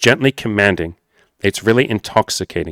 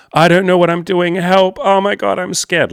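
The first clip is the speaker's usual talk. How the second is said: much higher, frantic, helpless whine; mock panic; 10 semitones higher, 4 dB louder than usual. Shown as a demonstration. Coach mocking the wrong way, high panicky whine. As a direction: squeal it like a scared kid. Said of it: "you're not just saying".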